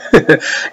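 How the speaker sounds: short breathy chuckle; scornful chuckle. Real, not acted. Mocking a rival who modified the Bible, scornful chuckle.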